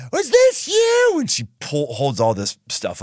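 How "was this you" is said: high, slow mother's question; mom voice. Retold or imitated. Mom confronting her son over dirty underwear, high and slow. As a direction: hold it up and ask like mom.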